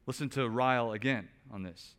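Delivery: ordinary talk, nothing marked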